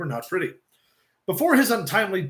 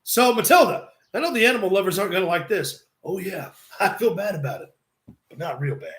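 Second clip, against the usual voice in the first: hint of a rowdy Scottish-styled host; Piper voice. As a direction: rasp it out like Hot Rod.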